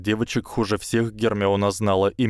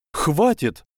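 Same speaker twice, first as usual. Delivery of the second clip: sharp; 8 semitones higher than usual. A narrator's reading. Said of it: "резко сказала Гермиона".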